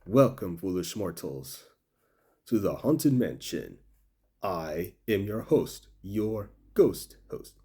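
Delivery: slow, spooky ghost host greeting. Retold or imitated. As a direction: drawl it out like a haunted house host. Quoting the Haunted Mansion ride's host.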